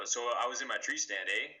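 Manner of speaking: "eh?" tacked on as a rising tag; "eh?" lifted like a check the listener is following; tag question "eh". Shown as a demonstration. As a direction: end on a questioning "eh?" seeking a response. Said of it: "A usage is very important".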